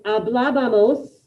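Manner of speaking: Hablábamos said slowly, syllable by syllable, with stress on the bá; slow model word. Shown as a demonstration. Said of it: "This one's hard. Listen".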